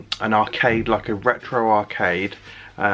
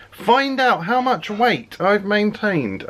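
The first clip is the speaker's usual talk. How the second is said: slow, high dramatic announcer; movie trailer voice; 10 semitones higher, much slower than usual. Acted. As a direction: drag it out like a trailer teaser. Teaser line repeated as trailer.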